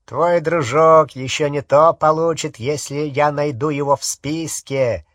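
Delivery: harsh, grating menace; grating werewolf voice. Acted. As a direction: grind the words out like a beast. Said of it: "знакомый до дрожи скрижащущий голос".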